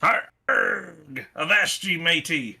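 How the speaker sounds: hammed-up pirate growl; drunk pirate. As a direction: play a rowdy drunk pirate. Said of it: "are you trying to impersonate a drunk pirate here?".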